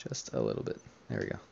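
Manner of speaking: breathy whisper, barely voiced. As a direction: whisper it, going tiny. Making himself smaller.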